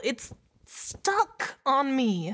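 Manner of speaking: very slow, high, "on" leaned into; drawn-out horrified realization; slow dread, stress on on. Acted. Dawning dread, slowed down.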